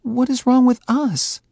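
Faye, upset; hurt demand. A narrator's reading. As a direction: demand an answer.

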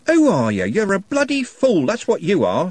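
high, loud screaming rage. A narrator's reading. Trev screaming at Algernon, furious. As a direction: scream the insult at him. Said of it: "screamed Trev".

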